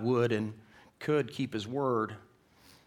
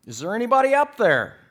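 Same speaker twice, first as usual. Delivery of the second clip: loud, high call for help, stretched out; terrified yell; 11 semitones higher, 11 dB louder than usual. Acted. Fallen tourist calling up from the canyon, terrified yell. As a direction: yell upward in acted terror. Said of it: "he started yelling".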